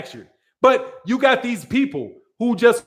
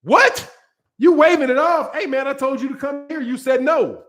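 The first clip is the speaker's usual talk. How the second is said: incredulous ref, ham it up on "What?"; mock ref; 3 semitones higher than usual. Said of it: "He was like".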